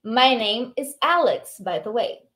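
slow, careful English; slow model reading. Shown as a demonstration. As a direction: model slowly for learners. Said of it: "model line".

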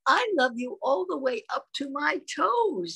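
high, eager little hare; stretching up as a small child. Acted. Reading to a baby, the little hare in a high voice.

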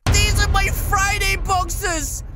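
loud, panicked realisation; embarrassed cry. Acted. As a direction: blurt it out mortified.

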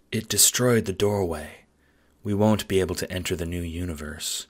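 quiet flat robot voice; flat, emotionless machine; Aradia monotone. Acted. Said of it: "simple monotone voice".

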